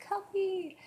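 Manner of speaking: high, loud wail of "Cuppy!"; mock-sobbing a little kid calling her toy; imitating crying child. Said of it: "I was crying".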